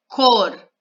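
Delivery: Cortejo split into cor, te, jo with pauses; syllable by syllable. Shown as a demonstration. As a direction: say Cortejo in three separate beats. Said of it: "três sílabas". (Cortejo separando as sílabas)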